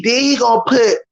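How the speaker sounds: can't stop laughing at the gore; laughing high while describing it. Real, not acted. Laughing while telling gory scene.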